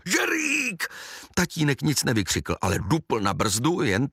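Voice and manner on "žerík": a high shout with a changed voice; aunt spots the boy and shouts his name; aunt's cry. A narrator's reading. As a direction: yell the name out, pitched way up. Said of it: "Škrkavka vykřikla".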